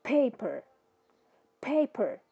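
paper with the P spat out; aspirated p. Shown as a demonstration. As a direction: puff air on paper. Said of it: "Eu praticamente cuspi o P". (paper com P cuspido)

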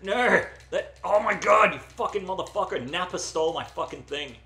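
high, loud protest; exasperated gamer outburst; outraged yelling. Real, not acted. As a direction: cry foul at a game thief. Item stolen in game.

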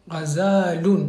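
Ghazalun said slowly, each syllable clear; slow model reading. Shown as a demonstration. Teacher models Ghazalun slowly for the student. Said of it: "très bien".

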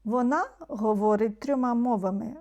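"Вона" lifted and held before the rest; stress on Вона. Shown as a demonstration. Teacher translating the emphatic pronoun example, stress on "Вона". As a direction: lean on "Вона", rising, then continue. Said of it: "коли наголос іде на цей".

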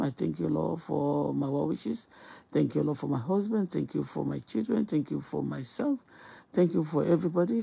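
steady praying voice, repeating pleas to God; fervent prayer. Acted. Host praying to God before greeting viewers, fervent prayer. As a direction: pray it out earnestly, pleading. Opening morning prayer on live.

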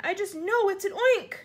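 high, loud, alarmed cry; screamed insistence. A narrator's reading. Fire chief sure of the monster, screaming. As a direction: insist on it in a panic. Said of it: "screamed the head of the fire department".

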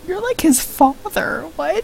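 lightly voiced second character.

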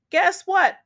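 shouted. Acted. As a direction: burst in with big news. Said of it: "Percy shouted".

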